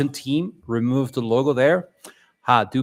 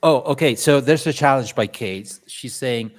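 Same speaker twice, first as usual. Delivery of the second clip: ordinary talk, nothing marked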